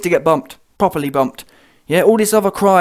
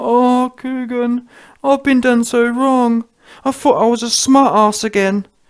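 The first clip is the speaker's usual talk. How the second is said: put-on crying boxer voice, higher pitched; 5 semitones higher than usual. Mocking Dillian complaining he lost his shot: mock crying Dillian impression. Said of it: "I wanna hear him crying some more".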